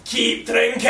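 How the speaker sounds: lightly imitated drunk Scottish housemate; drunk Scottish accent. Housemate sharing his hangover cure, drunk Scottish accent. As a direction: advise in a boozy Scottish accent. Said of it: "housemate who's Scottish and he's always drinking".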